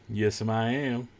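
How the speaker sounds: slow imitated Southern droid; Southern drawl. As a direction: stretch it out in a mock Southern accent. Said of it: "with the southern drawl".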